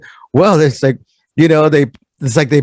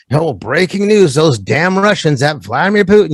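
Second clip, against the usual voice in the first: mock news anchor. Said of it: "all the news will".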